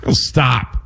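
halting stop-start voice with odd pauses; a light take on Walken's broken rhythm; Christopher Walken impression. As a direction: pause mid-phrase, then push on. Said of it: "Christopher Walken is got a great stop and go kind of voice".

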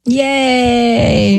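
long, level, drawn-out yay; sarcastic. Real, not acted. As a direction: drag out a mock cheer with no lift. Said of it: "No, I'm being sarcastic".

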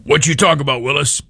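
self-admittedly poor impression of a child star's catchphrase; Gary Coleman impression. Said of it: "Only higher voice, I clearly didn't do a good impersonation".

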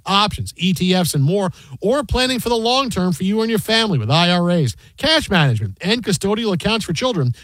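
polished, scripted commercial delivery; announcer reading sponsor copy; radio ad read. Real, not acted. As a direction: sell it crisply, stressing the brand and features. Reads a sponsor ad.

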